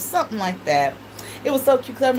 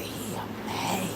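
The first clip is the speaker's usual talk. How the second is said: put-on slow, much softer little-girl murmur; mother repeats her daughter's words in a child's voice; 3 semitones lower, 12 dB quieter, much slower than usual. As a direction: draw it out like a toddler. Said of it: "That's how she would talk".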